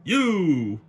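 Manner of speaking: surprised. Real, not acted. Spots someone in the crowd.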